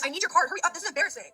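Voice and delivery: high, imitated bratty girl; retold rude demand. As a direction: order Mom about like a spoiled kid. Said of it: "like, the rudest one ever".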